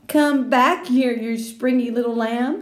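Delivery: put-on boy calling to girl while chasing; playful call. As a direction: chase her teasingly. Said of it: "he called".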